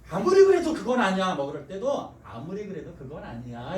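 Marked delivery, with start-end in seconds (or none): 0.1-1.3 louder advice. Shown as a demonstration. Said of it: "충고할 때는". 2.2-3.8 softer and lower gentle advice; a quiet, gentle rebuke. Shown as a demonstration. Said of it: "이렇게 얘기하셔야 돼요".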